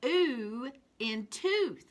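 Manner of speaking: Ooh in tooth said slowly, ooh stretched long; slow phonics drill. Shown as a demonstration. Teacher modelling ooh in tooth for children. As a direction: hold the ooh so it sings. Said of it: "let's look at these two again".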